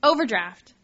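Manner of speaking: loud, drawn-out rhetorical question; exasperated self-reproach. Retold or imitated. Confessing a repeat blunder to the audience, exasperated. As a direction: punch it out in disbelief at yourself.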